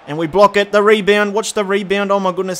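live play-by-play panic; shouting at the screen during a scramble; excited commentary. Real, not acted. Goalmouth scramble.

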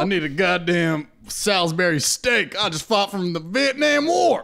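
mock veteran. Acting a war veteran.

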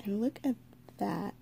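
hushed and admiring; breathless little whisper of wonder; awed whisper. Real, not acted. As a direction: whisper it as if the tape is precious.

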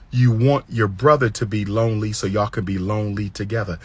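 low, unhurried shade; measured, composed delivery that lets it land; calm confrontation. Shown as a demonstration. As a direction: calmly put a hard question to her. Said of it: "as calm as I said it".

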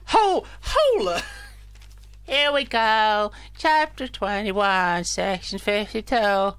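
slow NPC voice. Acted. NPC reads script slowly.

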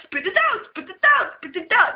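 mild mock rage. Retelling the meth head yelling at her brother, mild mock rage.

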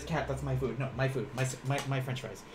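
soft, grumbling about food; guard your fries, muttering; mock possessive grumble. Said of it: "The best way I can translate it is".

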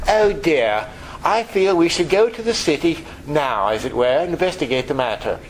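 prissy mock calm. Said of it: "They're not gonna talk like that".

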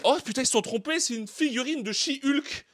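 high, loud fake surprise; mock shock. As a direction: play up the shock. Unboxing, mock shock at figurine.

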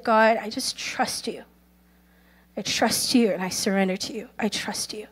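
understated, tender prayer; retold prayer. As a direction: pray it quietly and simply. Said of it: "he prayed the most precious prayer".

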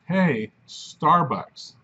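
Hey drawn out, then Starbucks, very slow; very slow quote. Shown as a demonstration. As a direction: stretch Hey, Starbucks out slowly to make the point. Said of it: "by my saying".

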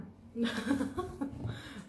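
laughing at one's own accent; self-amused laugh. Real, not acted. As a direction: break into a laugh at yourself.

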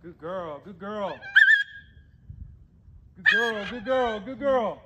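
high, loud sing-song praise; squeaky praising a dog. Real, not acted. Praising a returning bird.

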